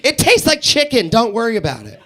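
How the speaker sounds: lightly acted coaching, pressing the point; insistent mom. Mom coaching her little boy before he orders, mildly insistent. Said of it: "I could hear the mom prepping him".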